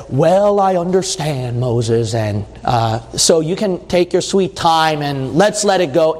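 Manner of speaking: mock lenient reassurance; mock understanding. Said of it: "No, the Lord got angry".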